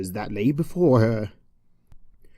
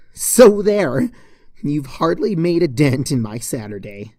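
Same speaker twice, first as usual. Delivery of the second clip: triumphant gloat; 3 semitones higher, 6 dB louder than usual. Acted. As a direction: crow it in victory.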